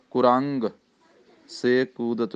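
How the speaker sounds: ਕੁਰੰਗ with a short u after k. Shown as a demonstration. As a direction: give ਕੁਰੰਗ its u clearly. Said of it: "ਕੱਕੇ ਨੂੰ ਔਂਕੜ ਲਾ ਕੇ".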